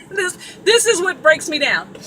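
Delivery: real laugh-cry at her own breakdown; laughing through tears. Real, not acted. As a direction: laugh at yourself while the tears come. Breaking down over stuck headphones.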